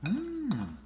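pleased hum. Real, not acted. Savoring a bite of food.

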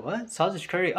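mildly puzzled questioning, imitating kids. Kids hearing an unexpected food example, puzzled. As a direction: echo it as a baffled question. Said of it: "the kids are like".

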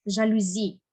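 Жалюзі with the beat on final ЗІ; stress on last syllable. Shown as a demonstration. Teacher repeats the model Жалюзі, stressed on last syllable. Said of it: "а саме на останній".

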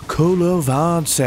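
"Call of Vance" savoured slowly, word by word; slow drawn-out "Call of Vance". Shown as a demonstration. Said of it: "Doesn't matter how you say it".

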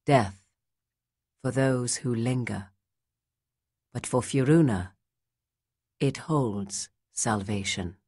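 put-on slow, grave reading of an old song; solemn recital. A narrator's reading. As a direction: read it like an ancient verse.

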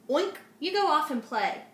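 lightly voiced busy father pig; a hint of a brisk dad shooing him off; light daddy-pig voice. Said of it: "Daddy Pig told Peter Piglet".

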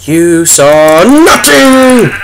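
slow, drawn-out fake innocence; mock innocent denial. Gamer tells viewers to forget the kill, slow mock denial. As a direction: insist nothing happened, hamming it up.

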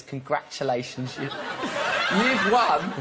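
slow, grand mock congratulations; mock announcement. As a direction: read it like a big prize. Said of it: "certificate that says".

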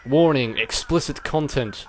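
slow, loud warning announcement; mock announcer. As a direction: announce it like a broadcast alert.

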